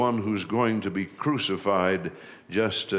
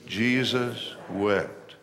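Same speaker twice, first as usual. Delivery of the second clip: slow group recitation; much slower than usual. Shown as a demonstration. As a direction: say it slowly together with the church. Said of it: "Can you say it with me?".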